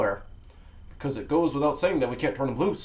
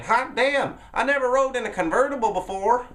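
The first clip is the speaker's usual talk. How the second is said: put-on excited kid; 11 semitones higher, 5 dB louder than usual.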